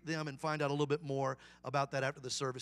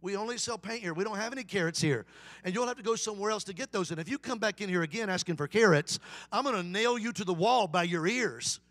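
mildly frustrated shopkeeper; 2 semitones higher, 4 dB louder than usual. Acted. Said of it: "got a little frustrated".

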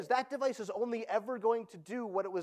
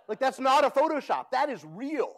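laughing disbelief; 7 semitones higher, 8 dB louder than usual. Real, not acted. Laughing at absurd Cisco picture.

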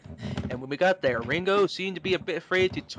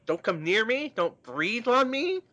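angry recoil; 3 semitones higher than usual. Acted. Acted Paul recoiling from touch.

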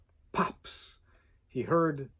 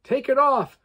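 loud, higher furious demand; angry shout, much higher and louder; 11 semitones higher, 8 dB louder than usual. Acted. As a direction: order him to take it off now. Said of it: "Trevor demanded".

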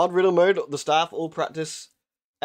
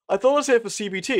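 higher, louder baffled protest; patient protesting to the therapist; 8 semitones higher, 3 dB louder than usual. Retold or imitated. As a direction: play the confused patient who expected therapy. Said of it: "And you're like".

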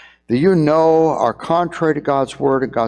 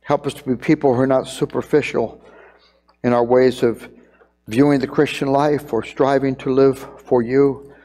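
closing prayer. Acted. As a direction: pray over the congregation, unhurried.

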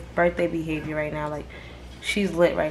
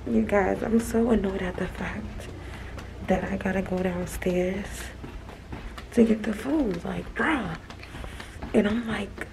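real hushed complaint, softer; 7 dB quieter than usual. Real, not acted. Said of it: "I'm whispering 'cause I'm the only one talking".

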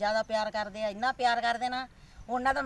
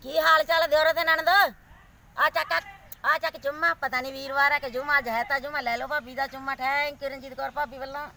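TikTok catchphrase. Acted. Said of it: "famous dialogue ਸੀ ਹੋ ਜੇ".

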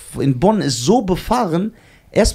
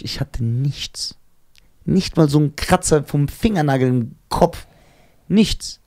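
ordinary talk, nothing marked

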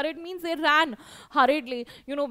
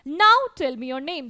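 encouraging ask; 7 dB louder than usual. Acted. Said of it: "That gave her actually the confidence".

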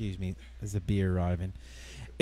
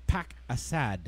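slowly spelled out phrase; slow and deliberate; 3 semitones lower, slower than usual. Shown as a demonstration. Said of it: "I learned an expression".

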